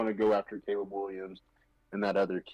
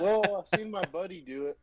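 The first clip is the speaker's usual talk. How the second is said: mock stubborn customer; 7 semitones higher than usual.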